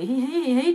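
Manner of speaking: put-on tittering; imitated giggle. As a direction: giggle like a happy couple, in imitation. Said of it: "Chồng vợ nó cười".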